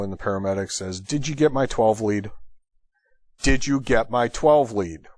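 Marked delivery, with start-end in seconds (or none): 1.0-2.3 pointed radio question, first ask. Retold or imitated. Paramedic asking the doctor about the twelve lead, pointed. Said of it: "Just that tone of voice". 3.4-5.1 slow, spaced-out repeat of the question; slower pointed repeat. Retold or imitated. Paramedic pressing the silent doctor for an answer, slow and pointed. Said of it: "with that much of a pause between".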